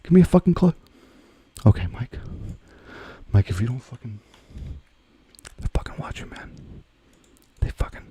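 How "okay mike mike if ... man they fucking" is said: hushed, urgent whisper aside. Real, not acted. Streamer whispering nervously while the audience watches. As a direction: whisper so the viewers won't hear.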